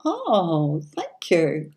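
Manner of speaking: bashful laugh through the words; giggling after a compliment; flattered laugh. Real, not acted. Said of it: "very rare accent and spoken so well".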